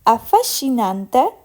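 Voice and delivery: "Affascinante" with SC said as "sh", ending on a rise; pronunciation model. Shown as a demonstration. Teacher showing learners the S and C, "Affascinante" with a "sh" in the middle. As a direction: show the "sh" sound of SC in "Affascinante". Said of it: "of S and C".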